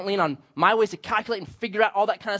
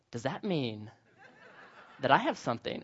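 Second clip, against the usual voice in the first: laughing question; 4 semitones lower, 8 dB quieter than usual. Retold or imitated. Confused guy after a stranger's gesture.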